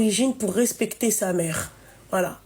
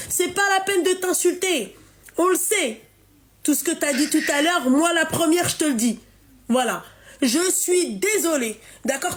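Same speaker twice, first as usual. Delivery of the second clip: heated scolding; 4 semitones higher than usual. Real, not acted. Scolding a caller who hit mother.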